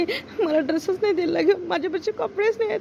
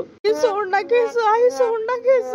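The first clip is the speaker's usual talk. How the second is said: pleading cry; 3 semitones higher, slower than usual. Acted. Girl begging stepmother to let go of her hair, pleading.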